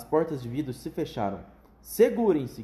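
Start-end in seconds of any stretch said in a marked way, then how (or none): 1.8-2.6 loud, higher warning shout. Acted. Wonka warning the passengers, shouting. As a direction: yell for everyone to hold on. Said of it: "gritou ele".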